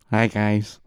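monotone friend. Retold or imitated. Pretending to be a friend at first meeting, soft monotone. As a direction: mimic a friend's toneless hello. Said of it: "he spoke in monotone".

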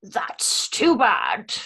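Aslan quote. Retold or imitated. Voice quote impressions game.

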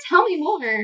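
high, dreamy fake interest; fake fascinated. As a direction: swoon over the pilot. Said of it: "be like".

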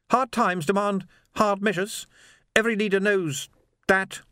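a calm fanatic lecturing; Swing's cold voice. A narrator's reading. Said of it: "said Swing".

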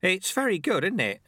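put-on pleased old sweeper, pitched high; high, happy character voice; beaming. A narrator's reading. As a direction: share your delight with the pupil.

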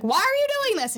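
high, pleading mock outburst; acted protest. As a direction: wail it like an upset cartoon girl. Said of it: "She's like".

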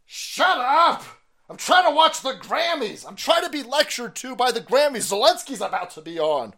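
high, loud mocking mom yelling down the stairs. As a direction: shriek at the kids from upstairs like an annoyed mom. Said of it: "moms are upstairs going".

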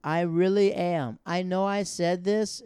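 loud, high, slow slurring sorry; drunk apology. Retold or imitated. Drunk boss apologizing at the staff party, slow and loud. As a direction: gush apologies like you're plastered. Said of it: "apologizing drunk".

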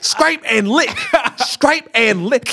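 high, loud mimicked catchphrase; loud, laughing cartoon impression. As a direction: belt it out like a cartoon, cracking up.

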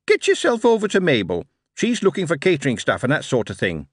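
put-on high chirpy young clerk; bright, quick recruiting officer; high eager Billy voice. Billy speaks.

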